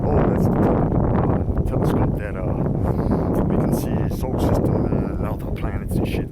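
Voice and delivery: loud sneering imitation of officials; mocking official voice. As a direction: parrot the cover story with scorn. Mocking official cover story.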